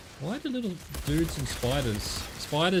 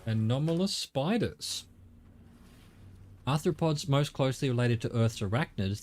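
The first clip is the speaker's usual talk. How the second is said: reading aloud. Acted. Reads in-game bestiary entry.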